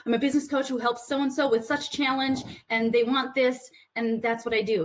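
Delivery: panicked robotic sales pitch; robotic elevator pitch. Retold or imitated. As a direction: rattle it off like a robot. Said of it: "like, robotic".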